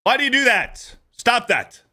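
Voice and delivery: very high-pitched, exasperated yell; hammed-up high squeal of frustration; exasperated outburst. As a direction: cry out as if you can't take it anymore. Exasperated outburst at the mimicked habit.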